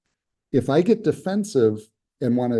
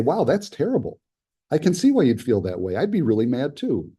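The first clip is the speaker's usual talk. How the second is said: empathetic agreement. Shown as a demonstration. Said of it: "But if I say".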